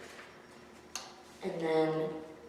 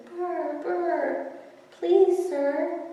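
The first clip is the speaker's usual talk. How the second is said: a small cold kitten begging, pitched high; shivering kitten; 10 semitones higher, much slower than usual. Acted. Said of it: "the poor kitty says".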